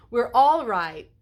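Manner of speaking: drawn-out attempt at an American accent; blend-in American accent. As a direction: stretch it out to pass as American. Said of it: "I'm trying to blend in".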